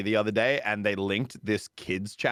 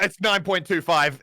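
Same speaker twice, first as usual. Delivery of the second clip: "nine" stressed, louder and higher; 8 semitones higher, 5 dB louder than usual. Real, not acted. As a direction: correct him, pressing "nine". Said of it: "that's a sore topic".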